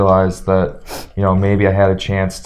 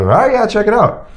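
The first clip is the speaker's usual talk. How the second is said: ref; 12 semitones higher than usual. Retold or imitated. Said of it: "And he goes".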